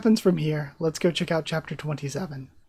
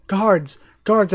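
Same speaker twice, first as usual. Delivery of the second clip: calling for guards; 3 semitones higher, 5 dB louder than usual. Acted. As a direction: yell for the guards in alarm. Villain calling guards after attack.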